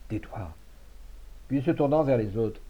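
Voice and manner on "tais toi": soft, low murmur; low and pleading. A narrator's reading. Friend pleading in Savinien's ear, low and urgent. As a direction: beg it under your breath. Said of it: "lui dit d'une voix basse et suppliante".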